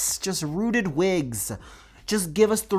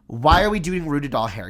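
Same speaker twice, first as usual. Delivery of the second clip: exasperated again; 5 dB louder than usual. Real, not acted. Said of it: "I'm gonna get myself mad again".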